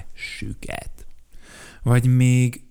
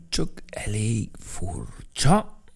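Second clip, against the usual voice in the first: slow whispered puzzlement; hesitant whisper; much slower than usual. Acted. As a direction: say it unsure, half under your breath. (tétova suttogás)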